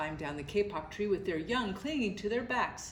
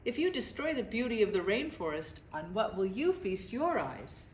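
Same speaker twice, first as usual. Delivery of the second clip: lazy sloth voice; 9 semitones higher than usual. A narrator's reading. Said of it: "in her deep and lazy voice".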